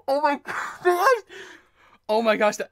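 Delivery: high, loud disbelieving gasps; real starstruck outburst; overwhelmed excitement. Real, not acted. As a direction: lose your words from sheer excitement. Overwhelmed by seeing self credited.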